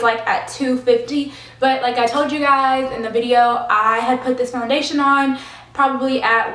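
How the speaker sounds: out of breath after climbing stairs; panting a little between phrases. Real, not acted. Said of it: "I'm sorry, I'm out of breath".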